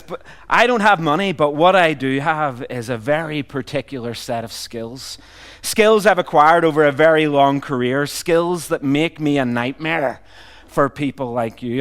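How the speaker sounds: put-on light North American-Irish accent, movie-hero threat; Liam Neeson. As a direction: deliver the kidnapper warning in a hint of Irish-American. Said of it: "weird kind of North American Irish accent".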